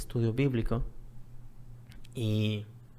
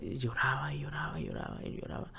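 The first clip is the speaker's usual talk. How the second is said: fading whisper; 7 dB quieter than usual. Real, not acted. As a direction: let "y lloraba" trail off to nothing. Repeating he kept crying.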